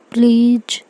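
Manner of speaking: a gentle first please before the stronger one; cute pleading. Acted. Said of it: "ऐसे cute सा face बनाती है".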